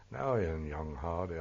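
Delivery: lightly imitating a comical old Buckinghamshire accent; just a hint of a light old Buxy voice; faint Buxy accent. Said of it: "I can't imitate it".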